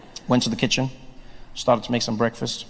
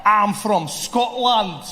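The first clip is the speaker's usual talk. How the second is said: very slow, higher, hammed-up Scottish accent; bluffing tourist doing bad Scottish; fake Scottish accent; 6 semitones higher, much slower than usual. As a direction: stretch it out in overdone Scottish. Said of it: "speak to people in their accent".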